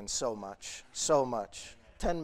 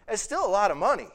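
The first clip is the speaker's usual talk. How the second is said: louder, higher and quicker, pressing the point; emphatic; 5 semitones higher, 8 dB louder, faster than usual. Real, not acted. Preacher to congregation, insisting loudly. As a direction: hammer it home that it's still a lot.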